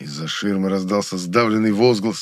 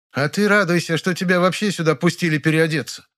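higher, snapping grande dame; exasperated; 8 semitones higher than usual. A narrator's reading. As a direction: lose patience and snap. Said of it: "не выдержала злая Фуфа". (не выдержав, раздражённо)

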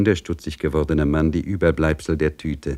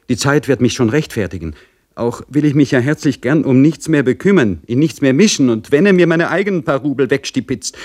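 much higher, louder anxious pleading; pleading maid; 7 semitones higher, 4 dB louder than usual. Acted. Dorchen begging the Pristav for protection, high and anxious. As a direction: beg for protection, voice rising.

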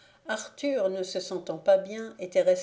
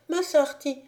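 higher and louder, "Mas" pushed out; louder delirious call; 7 semitones higher, 5 dB louder than usual. A narrator's reading. Sick boy calls his master again, louder urgent cry. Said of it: "Puis il continua".

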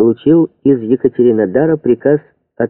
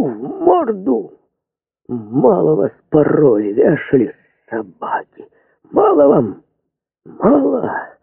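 screaming in rage; 7 semitones higher, slower than usual. Acted. Officer screams at the peasants.

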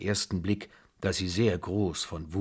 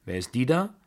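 put-on higher, louder, fast, scolding old-lady voice; imperious old grandmother; 5 semitones higher, 4 dB louder than usual. A narrator's reading. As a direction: rattle it off, bossy and scornful. Babuschka asks about Blanche. (herrische Großmutter, schnell und laut schimpfend)

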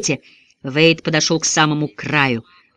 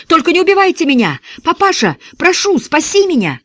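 high, desperate wail of a chained prisoner; panicked wailing; 12 semitones higher, 3 dB louder than usual. A narrator's reading. Prisoner in the back seat begs not to be killed, wailing high. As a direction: beg for your life in a shrill panic. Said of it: "снова ошалело заголосил Донни".

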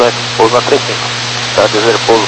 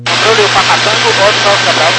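police radio; 4 semitones higher than usual. Real, not acted. Pilot calling tower over radio.

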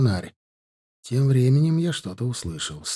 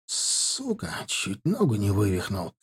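complaining; 4 semitones lower, 6 dB quieter than usual. A narrator's reading. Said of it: "жаловался Паулускус".

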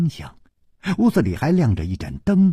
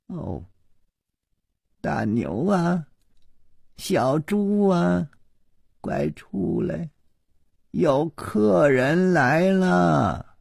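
calling out; 8 semitones higher, slower than usual. A narrator's reading. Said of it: "立刻就喊道".

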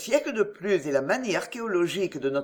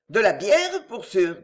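a mock grumble that starts louder on bière; grumbled; 5 dB louder than usual. Old Jemima grumbling about the thirsty drinkers, mild grouse. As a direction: grouse it like a sullen old cook. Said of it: "grogna Jemima".

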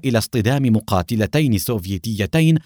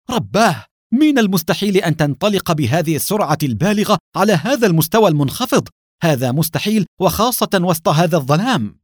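frightened cry; 6 semitones higher than usual. Acted. Alexei panicking as the jet skims the ground, frightened shout. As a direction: shout it fast as the plane dives. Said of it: "أليكسي صاح بفزع".

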